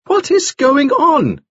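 very high, slow, emphatic demand; astonished. A narrator's reading. Nielsen repeats his question to the men, astonished. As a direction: insist on an answer, aghast.

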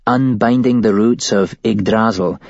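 a hint of a scared young woman; shaken woman witness. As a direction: voice her as a rattled witness telling it. Woman recounts the cult's plan.

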